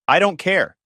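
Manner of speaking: screamed. Acted. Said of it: "She screamed it".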